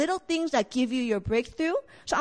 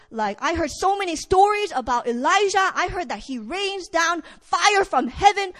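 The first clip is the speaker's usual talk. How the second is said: excited; 2 semitones higher than usual. Acted. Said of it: "he is so excited".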